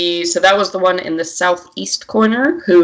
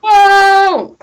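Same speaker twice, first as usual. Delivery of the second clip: surprised whoa; 6 dB louder than usual. Real, not acted. Reacting to huge roll.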